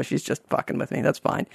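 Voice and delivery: breathy whispered realization, fast; whispered aside. Retold or imitated. Newcomer realizing the castmate is only teasing him, whispered to himself. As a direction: let it drop to a private whisper.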